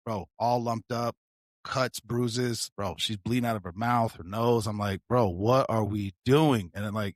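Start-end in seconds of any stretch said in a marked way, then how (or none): 5.1-6.7 slow, drawn-out plea to his partner; incredulous urging. Retold or imitated. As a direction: stretch it out, asking what they're waiting for.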